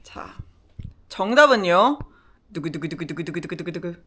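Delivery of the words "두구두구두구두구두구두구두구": drumroll reveal. Acted. Drumroll before quiz answer.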